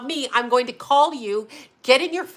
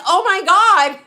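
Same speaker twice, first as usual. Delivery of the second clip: shocked laugh; 8 semitones higher, 7 dB louder than usual. Retold or imitated. Jenny shocked, laughing retelling.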